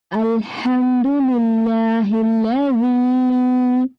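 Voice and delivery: slow, drawn-out Quran recitation. Shown as a demonstration. Teacher recites the dua slowly for children. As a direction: recite slowly for the class to repeat.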